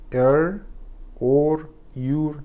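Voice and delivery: Er, or, your with a flat Persian r; wrong r sounds. Shown as a demonstration. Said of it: "همه اینا غلطن".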